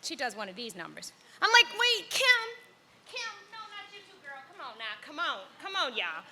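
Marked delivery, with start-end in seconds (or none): 1.8-6.2 put-on childish whine. Daughter as a small child whining at her girlfriend to keep her clothes on. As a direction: whimper like a kid who's been let down. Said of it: "I turn seven".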